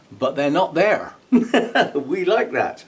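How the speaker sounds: pleased they're gone; delighted. Real, not acted. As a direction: crow it happily. Gleeful at missing scale pests.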